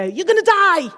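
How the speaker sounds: mock panic. Brain's alarm voice warning students, mock panic. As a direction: play the panicking amygdala. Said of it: "It's there to basically go".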